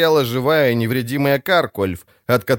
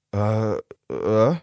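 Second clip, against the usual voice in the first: stunned; 2 semitones lower than usual. A narrator's reading. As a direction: caught completely off guard. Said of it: "выпучила глаза шеф". (ошарашенное «А, а?»)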